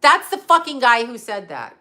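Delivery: real angry outburst, hitting each word; emphatic, worked-up accusation; going off. Real, not acted. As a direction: go off on a heated rant. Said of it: "Oh, I'm going off".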